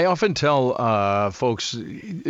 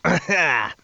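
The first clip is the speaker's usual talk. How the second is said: throat-clearing cough; 3 semitones higher than usual. Real, not acted. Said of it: "Just need to wet the throat".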